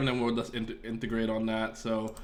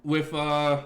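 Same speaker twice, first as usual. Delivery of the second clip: exasperated rant; 4 semitones higher than usual. Retold or imitated. Streamer venting about Godot docs to chat, exasperated. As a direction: drag out the complaint, still fuming. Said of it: "Excuse me, like".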